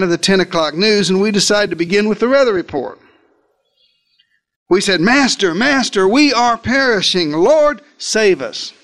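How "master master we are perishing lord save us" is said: rising, urgent plea to the master, climbing higher; panicked cry for help. Acted. Disciples waking Jesus in the storm, panicked rising plea. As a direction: call out in fear as the boat sinks.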